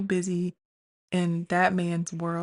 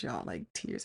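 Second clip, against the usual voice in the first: whisper; 12 semitones lower, 9 dB quieter than usual. Real, not acted. Emphasizing she was crying.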